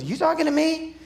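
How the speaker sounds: who, me? disbelief, acted out; mock incredulous. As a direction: act out mild disbelief at being addressed. Gideon doubts the angel means him.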